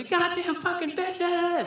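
high, slow, loud raging scream; dad screaming at mom through the window; mock scream. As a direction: yell it like a furious dad. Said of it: "screaming and shit".

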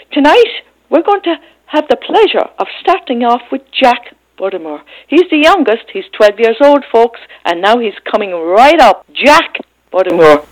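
announcer intro. Real, not acted. Host announces performer to audience.

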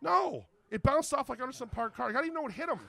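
high incredulous reply; high voice playing it baffled; high-pitched retelling. Acts out answer about wallet.

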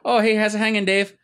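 high, hammed-up sleazy hello; mock creepy greeting. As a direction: greet him like a sleazy dude.

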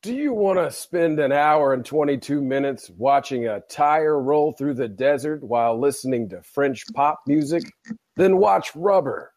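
understated movie trailer announcer; teaser trailer voice-over. Pretend. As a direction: pitch it like a trailer, slowing on the title. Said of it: "teaser trailer for the film".

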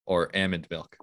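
ALMOND said as AM-und, short flat A. Retold or imitated. Host voicing Scott ordering milk for Jane, almond as AM-und. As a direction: say almond with the A of 'am'. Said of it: "It's pronounced almond".

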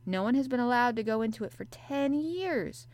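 ordinary delivery

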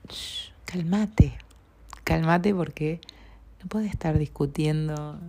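slow, hushed calming words; soothing shush. Retold or imitated. A dear friend calming her mid-argument, slow soothing hush. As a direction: gently talk someone down from anger. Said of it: "que me dijo".

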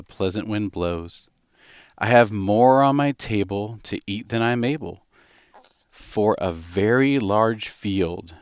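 slow, sing-song storybook reading; slow nursery-poem reading; reading a poem to a baby. Acted. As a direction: read it gently to the baby.

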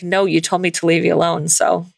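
dramatic fifties voice. Acted. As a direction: let the last line linger, near tears. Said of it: "dramatic nineteen fifties voice".

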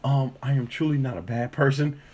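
high, sweet apologetic voice; mock high apologetic lady. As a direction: gush apologies like a flustered stranger. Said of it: "She's like".

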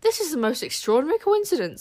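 bursting with news; excited. A narrator's reading. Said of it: "said Wish excitedly".

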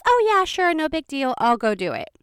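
no-trouble-at-all friendliness; nice, obliging. Retold or imitated. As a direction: imitate an obliging front desk lady. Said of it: "was relatively nice".

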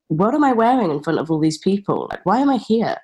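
rising incredulity breaking into laughter; mock disbelief. Performer asking why they are on stage in front of everyone, mock disbelief. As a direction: question yourself in growing, amused disbelief.

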